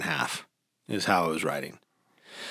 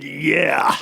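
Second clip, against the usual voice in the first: mock cheer; 6 semitones higher, 4 dB louder than usual. Flagger cheering at top.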